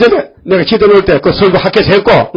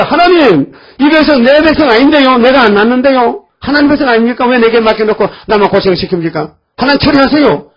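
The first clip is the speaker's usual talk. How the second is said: pleading Moses; 5 semitones higher than usual. Retold or imitated. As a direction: cry out to God, fed up and begging. 모세가 엎드려 하나님께 호소. (답답해서 하나님께 매달리는 모세처럼 높고 크게)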